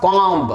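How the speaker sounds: COMB with the final B sounded; wrong COMB. Shown as a demonstration. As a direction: say COMB with an audible B at the end. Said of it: "not comb नहीं".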